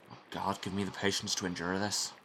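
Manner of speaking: put-on weary prayer in an Irish accent. Monk begging God for patience in an Irish accent. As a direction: sigh to God in a light Irish lilt. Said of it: "why did you just go Irish?".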